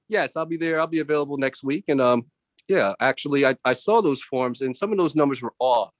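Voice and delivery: polite corporate meeting voice; calm office call voice; professional phone voice. Retold or imitated. Unmuted, professional conference call voice.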